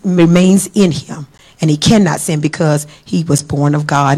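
low-pitched, steady Bible reading; solemn scripture reading. Real, not acted. Preacher reads on through First John to the congregation, solemn and low. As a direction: read it out low and deliberately.

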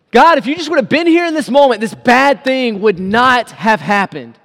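disappointed plea. Acted. A believer asks God why he was absent, disappointed plea. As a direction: plead with frustration, quick then slowing down.

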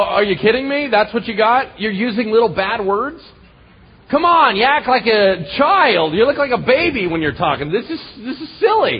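high, incredulous mock dressing-down; animated, unimpressed scolding; scoffing disbelief. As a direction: belittle them like a tantruming child. Acts God scoffing at railers.

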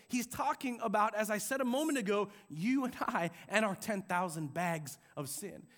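ordinary delivery

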